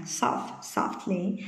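very soft, slow, hushed delivery. Shown as a demonstration. Teacher illustrating gentle speech to students, very softly. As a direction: say it gently and slowly, barely voiced. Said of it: "nói rất là nhẹ nhàng".

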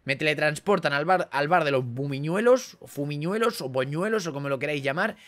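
annoyed rant. Real, not acted. Annoyed at teleport destination.

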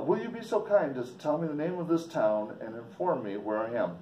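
lightly put-on Swiss accent; polite request with a hint of Swiss accent; foreign accent. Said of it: "keep in mind he has a accent".

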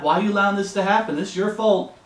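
a touch of indignant blame; accusing God. Retold or imitated. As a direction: point the finger in a lightly acted complaint. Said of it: "pointing the finger at God".

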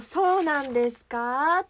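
drawn-out, doubting question; slow, suspicious query with a lifted ending; doubtful. Acted. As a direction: ask it slowly, as if not quite convinced. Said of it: "疑うような感じで言うみたいな".

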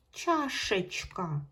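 "Чашечка" said very slowly, ш sounded clearly; teacher stretching "Чашечка"; drawn-out check word. Shown as a demonstration. Teacher to pupils, stretching the check word slowly. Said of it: "Щоб чітко було чути букву Ш".

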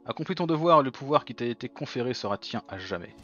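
high theatrical villain, lightly voiced; hint of a grand menacing villain. Voices game villain lines.

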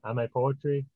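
plainspoken poem recital, paused between lines; poem reading. Acted. Poet reads a poem about dad, measured recital.

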